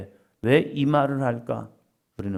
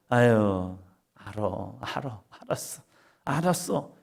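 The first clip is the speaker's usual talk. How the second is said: soothing mother; 4 semitones lower, slower than usual. Retold or imitated. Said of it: "하면서".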